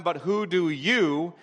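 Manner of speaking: "you" drawn out slowly at the end; emphatic YOU. Shown as a demonstration. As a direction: lean slowly on the word "you". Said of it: "is emphatic in Greek".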